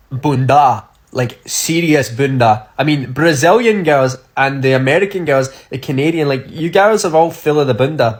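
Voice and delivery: gushing hype. Real, not acted. Enthusiastic praise to viewers.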